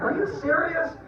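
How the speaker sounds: squeaky-high gushing disbelief; hammed-up overjoyed dad. Dad to son on Father's Day, exaggerated overjoyed amazement. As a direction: squeal it, overcome with mock delight.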